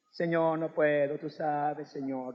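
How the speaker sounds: low, quiet, slow whining plea; mock humble whine. Preacher mimicking a meek believer's whining excuse to God.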